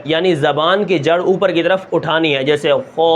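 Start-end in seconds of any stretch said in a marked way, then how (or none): 2.4-3.1 خا said heavy and full, back of tongue raised; موٹا خا; heavy kha. Shown as a demonstration. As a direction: model a thick, heavy خا. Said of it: "موٹا پڑھنا ہے".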